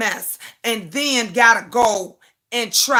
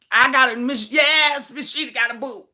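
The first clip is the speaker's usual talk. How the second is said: a delighted shout bursting out; crowing happily about her new man; excited shout; 3 semitones higher than usual. Real, not acted. To viewers about her new boo, a joyful shout.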